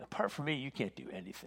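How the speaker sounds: scornful, sneering, belittling, demeaning tone. Demonstrating the way not to say it: sneering, demeaning. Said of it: "Not this sneering, demeaning".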